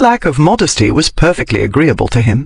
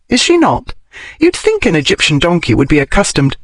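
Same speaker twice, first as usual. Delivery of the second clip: higher-pitched learned heroine; Daphne's voice; 5 semitones higher than usual. Acted. Daphne discusses the mummy and the squeamish donkey, higher voice. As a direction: reason it out in a raised, lively pitch.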